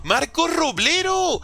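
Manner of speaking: nombre alargado, muy agudo y lento; cántalo alargando cada sílaba; llamado entusiasta. Real, not acted. Greeting a viewer by name. (saludo eufórico, agudo y arrastrado)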